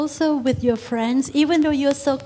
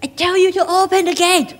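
higher, quick yelled order; mock yelling; 5 semitones higher, 3 dB louder, faster than usual. Resident ordering village security to open up, mock yell. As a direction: act out yelling at a guard. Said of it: "Don't yell at them".

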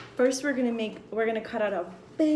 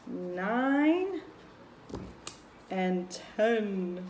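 put-on teaching a child to count; much slower than usual. Shown as a demonstration. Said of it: "How many did we put already?".

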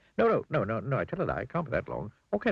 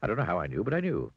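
chatterbox character. Acted. Mr Chatterbox to Mr Bowler about the new hat, giddy gushing. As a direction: gush on and on, delighted with the hat.

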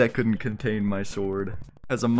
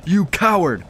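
much higher, hammed-up exasperation; mock frustrated warrior; 7 semitones higher than usual. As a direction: huff like a knight who keeps missing. Frustrated mock warrior can't hit.

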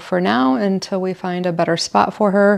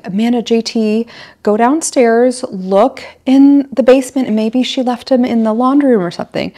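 higher, lively directing voice; cheerful mom instructions; 5 semitones higher than usual. Retold or imitated. Mom sending the kids to search the basement, cheerfully higher. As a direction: send the kids off brightly. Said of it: "I'm like".

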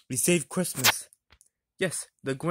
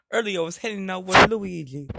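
louder, put-on Italian lilt; Italian accent; 3 semitones higher, 5 dB louder than usual. Mario tells his friend about Luigi, Italian accent. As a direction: play up a cartoon Italian accent. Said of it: "I know you're Italian".

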